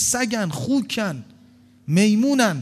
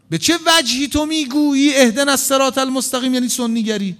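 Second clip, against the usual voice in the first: rhetorical challenge; 5 semitones higher, 4 dB louder than usual. Acted. Preacher challenges listener loudly.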